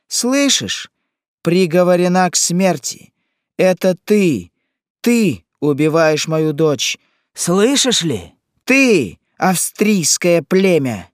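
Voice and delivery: high, loud, anguished accusation; frenzied wail. A narrator's reading. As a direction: wail and accuse in mad grief. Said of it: "простонала безумная". (надрывное, безумное обвинение)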